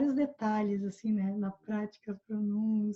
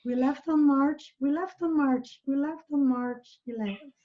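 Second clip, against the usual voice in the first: slow model. Shown as a demonstration. Teacher models English phrase slowly.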